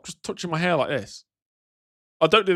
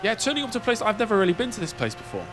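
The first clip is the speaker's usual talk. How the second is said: lightly raised, eager thank-you voice; pretend polite chat. Streamer playing a thankful visitor to a guide, mildly gushing. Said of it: "Me having a pretend conversation with a person".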